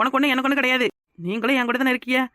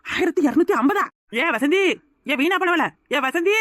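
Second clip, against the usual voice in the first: high outraged call to a neighbour; startled, then yelling for Vasanthi; 4 semitones higher than usual. Acted. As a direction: shout her name across the street. Shocked, calling out to neighbour.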